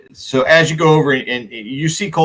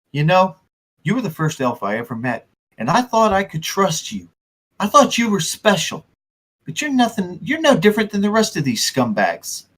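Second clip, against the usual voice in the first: a touch of wounded reproach, pitched up; hurt, bitter Coulson; 5 semitones higher than usual. Acted. Betrayed man to the first elf he met, hurt. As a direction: let disappointment turn mildly bitter. NPC disappointed in elf friend.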